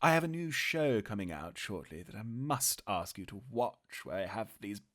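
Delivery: lightly voiced glamorous star, purring; a hint of an old-Hollywood diva; breathy vintage purr. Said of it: "spot of fun with the old sport".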